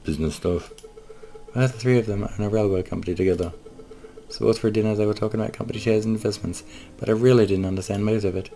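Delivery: a touch of naive cheer; young cat lady. Acted.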